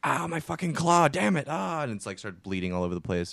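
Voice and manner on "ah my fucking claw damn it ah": high, slow pained creature cry; hurt spider voice. Retold or imitated. Spider wailing in pain after the bear trap snaps.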